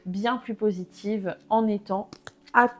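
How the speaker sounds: talking through hiccups; hiccuping. Real, not acted. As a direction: hiccups breaking the words. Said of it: "Pardon, j'ai le hoquet".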